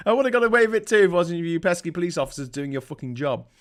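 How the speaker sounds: lightly voiced cartoon villain, fast; mock baddie complaint. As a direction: grumble it like a caught crook. Scooby-Doo villain unmasked.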